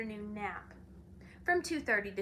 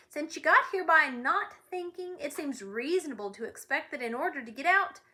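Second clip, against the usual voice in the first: louder, pressing impatience; impatient; 4 semitones higher, 5 dB louder than usual. Acted. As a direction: push it through, impatient. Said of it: "continued the watchdog impatiently".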